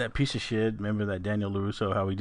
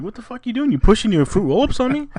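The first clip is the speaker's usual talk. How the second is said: incredulous shout; 10 semitones higher, 8 dB louder than usual. Retold or imitated. Retold incredulous reaction to girl.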